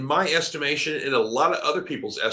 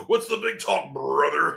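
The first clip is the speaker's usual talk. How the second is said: mock Hulk Hogan; 3 semitones higher than usual. Mocking Hogan's catchphrase.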